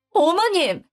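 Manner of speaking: exasperated protest. A narrator's reading. Daughter-in-law interrupting mother-in-law's tirade, exasperated. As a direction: push back against the accusation.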